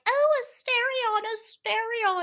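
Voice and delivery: high, dreamy sigh of his name; swooning fangirl. Retold or imitated. Imitating girls who sigh over Asterion, high and dreamy. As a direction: moon over him like a lovestruck fan. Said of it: "all these girls are like".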